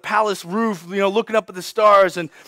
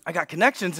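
low, hushed, furtive pitch; acted whisper; 6 semitones lower, 9 dB quieter than usual. Moses secretly offers help to a Hebrew slave, whispering. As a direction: offer favours secretly, very softly. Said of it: "maybe he whispers to one".

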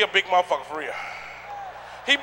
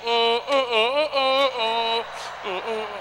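humming while eating; 5 dB quieter, much slower than usual. Retold or imitated. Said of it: "he be like".

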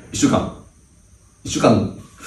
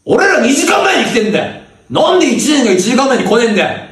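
angry yell. Acted. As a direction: bark it at the first-years. Senior yelling at juniors.

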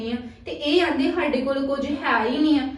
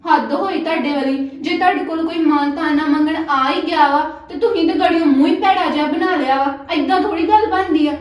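angry scolding; 4 dB louder than usual. Acted. Sister-in-law quarrel over money.

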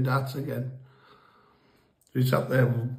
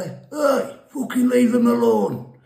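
retold shout; 4 dB louder, slower than usual. Mate shouting at the fighter across the road, retold shout. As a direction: yell at him to stop the beating. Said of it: "So he shouts over".

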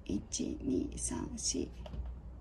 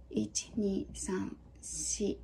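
whispered counting; 7 dB quieter, much slower than usual. Real, not acted. Counting strokes under her breath.

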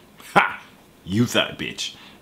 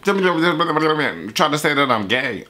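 slow, stretched mock rap delivery; imitating the rapper; 7 semitones higher, much slower than usual. Repeating the rapper's line, a slow drawn-out imitation. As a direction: drag it out mimicking the song. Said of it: "He said".

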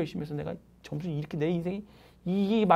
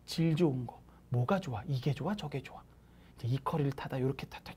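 ordinary talk

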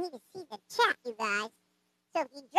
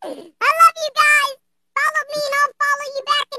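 laughing; 9 semitones higher, 6 dB louder than usual. Real, not acted. Laughing through sign-off.

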